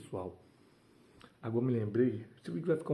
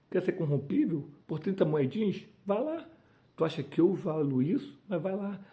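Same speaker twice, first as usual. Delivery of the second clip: higher, a rising dare spoken for Jesus; Jesus daring the disciple who would betray him; Jesus challenging Judas; 6 semitones higher than usual. Acted. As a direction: throw the dare at the traitor, pitch climbing. Jesus voiced, speaking to Judas.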